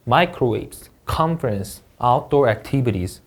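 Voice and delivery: each word read out clearly for students; model word reading. Shown as a demonstration. Teacher modeling vocabulary words one by one for students. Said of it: "같이 읽어보겠습니다".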